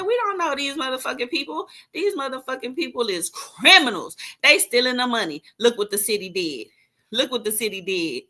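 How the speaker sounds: retold outburst. Retelling her warning about nonprofits.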